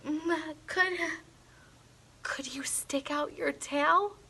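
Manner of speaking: breathy hushed whisper, nervous. A narrator's reading. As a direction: whisper it so the monster barely hears. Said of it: "I whispered".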